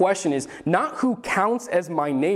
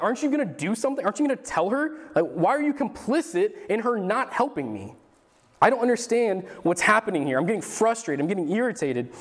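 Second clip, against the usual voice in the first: high, fast, whiny mock complaint; exasperated complaint; 5 semitones higher, faster than usual. Martha complaining to Jesus about her sister, mock exasperated. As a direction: play Martha fed up and pushing back at Jesus. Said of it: "starts coming at Jesus a little bit".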